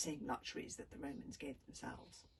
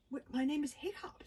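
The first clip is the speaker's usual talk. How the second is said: stammering; 6 semitones higher, 6 dB louder than usual. A narrator's reading. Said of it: "stammered Hiccup".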